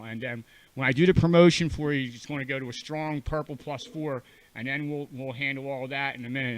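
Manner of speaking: talking while chewing gum. Real, not acted. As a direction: speak around a wad of gum. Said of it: "I'm chewing gum 'cause I need to chew gum".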